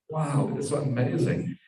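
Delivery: amazed. Acted. Friend on the hilltop takes in the view, amazed.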